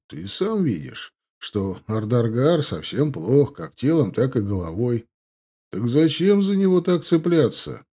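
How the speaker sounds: lounge back and needle him. Acted. Indgar lounging, slow.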